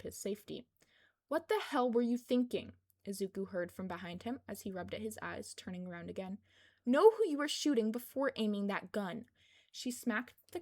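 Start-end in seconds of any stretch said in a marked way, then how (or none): 1.3-2.7 loud, angry rebuke; scolding. Acted. Kayama scolds the careless guard. 6.8-9.3 loud, sharp reprimand; stern scolding. Acted. Kayama scolds the careless guard.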